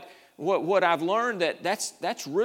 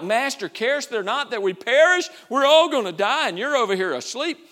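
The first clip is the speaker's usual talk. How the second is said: loud, high mock panic of frightened disciples; panicked cry; 5 semitones higher, 6 dB louder than usual. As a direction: cry out as if the boat is sinking.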